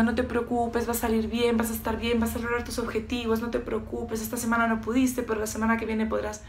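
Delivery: soft mock-soothing patter; coddling reassurance. Coach imitating pampering reassurance to clients, softly coddling. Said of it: "como mimando y nutriendo y diciendo".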